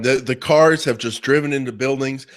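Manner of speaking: ordinary delivery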